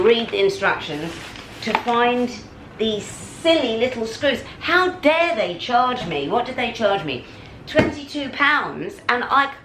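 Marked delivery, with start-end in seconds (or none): 2.8-9.5 lost temper. Real, not acted. To viewers about the fan's price, indignant outburst. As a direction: stretch each word in outrage. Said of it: "I've lost my temper".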